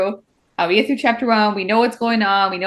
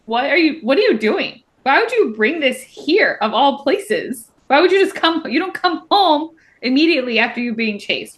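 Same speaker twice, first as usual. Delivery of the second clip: higher, exasperated scolding in imitation; mock pissed; 4 semitones higher than usual. Elroy scolding Saris for coming home, mock angry. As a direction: tell her off in mock outrage. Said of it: "He's obviously super pissed".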